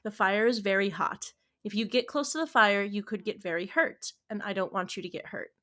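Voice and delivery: measured parental explanation; composed, even and instructive; calm teaching voice. Retold or imitated. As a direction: imitate a patient parent explaining to a child. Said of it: "there wasn't a calm way of saying".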